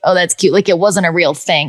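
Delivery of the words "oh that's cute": dismissive. Retold or imitated. People brushing off home studio work, dismissive. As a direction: repeat the brush-off, back to normal level. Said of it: "people would be like".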